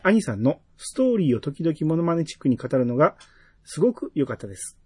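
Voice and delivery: measured, evenly phrased read-aloud; reading a listener's message. Real, not acted. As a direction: read the letter out clearly, phrase by phrase. (お便りを丁寧に読み上げる口調)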